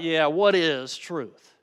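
slow, scoffing "Yeah, what is truth?" with a drawn-out "what"; condescending. Shown as a demonstration. Preacher showing Pilate's scornful reply to Jesus, condescending. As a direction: sneer the question back, dismissive. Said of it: "in a condescending way".

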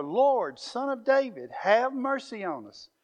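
loud, high pleading cry, pushing over the crowd. Acted. Blind men cry out over the hushing crowd, loud pleading call. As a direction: call out over the crowd that tried to hush you. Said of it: "but they cried out all the more".

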